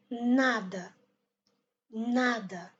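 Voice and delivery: nada with long first NA, weak ending; stress on NA. Shown as a demonstration. Teacher repeats correct nada, stress on first syllable. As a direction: lean on NA, let nada fall away. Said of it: "On donne accent sur N A".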